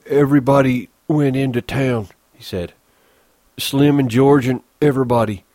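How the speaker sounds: lightly voiced big simple man; Lenny, childlike. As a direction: plead like a lonely child. Lenny character voice.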